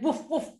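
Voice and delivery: light spoken woofs; storybook doggy woofing; dog bark. Acted. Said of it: "The doggy said".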